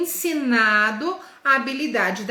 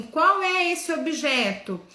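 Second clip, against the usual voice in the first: put-on asking the children; 5 semitones higher, slower than usual. Shown as a demonstration. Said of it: "e falar assim".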